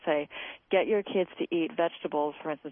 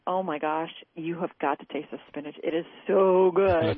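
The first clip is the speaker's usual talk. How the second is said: enthusiastic parent; 3 dB louder than usual. Shown as a demonstration. Parent at the kitchen island urging kids to taste spinach, gushing. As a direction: sell the spinach like it's a treat. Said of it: "stand in front of their kids ... and say".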